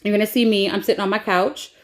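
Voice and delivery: ordinary talk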